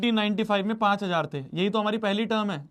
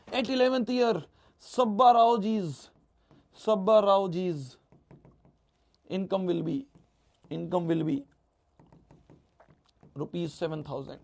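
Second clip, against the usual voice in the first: very slow, word by word, for writing down; slow dictation; much slower than usual. Shown as a demonstration. Teacher dictating to students, very slow and spelled out. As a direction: dictate it slowly so they can write. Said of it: "लिख दो अंग्रेजी".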